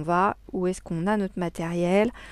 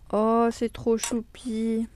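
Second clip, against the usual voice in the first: cooing; 3 semitones higher, much slower than usual. Real, not acted. Unboxing a cute gift.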